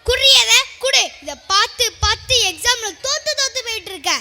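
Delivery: loud opening demand, easing into scolding; shouted scolding. Acted. Mother snatches the phone from her daughter, shouted scolding. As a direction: tell off a child at full voice, then nag. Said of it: "ஏன் அப்படி கத்துற?".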